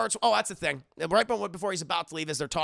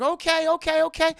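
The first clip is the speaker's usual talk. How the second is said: higher, louder hurried okays; calm him down fast, scared; frightened placating; 9 semitones higher, 5 dB louder than usual. Retold or imitated. Michelle placating angry captor.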